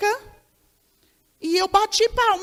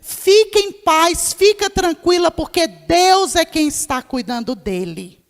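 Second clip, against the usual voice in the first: a firm, louder, slow prophetic word of comfort; 6 dB louder than usual. Retold or imitated. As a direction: speak God's word with assurance to the worried mother. Profecia consoladora à mãe aflita. (palavra profética de consolo, mais alta e lenta)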